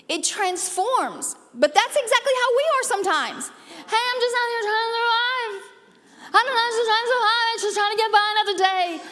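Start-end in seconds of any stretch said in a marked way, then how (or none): 3.9-9.0 higher, lightly put-on voice of someone just getting by; mock the tired survivor a little, fast; whiny mock complainer. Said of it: "I hear you talking".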